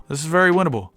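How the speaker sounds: hopeful. Real, not acted. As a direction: convince yourself there is a chance. Hopeful take before the shouted one.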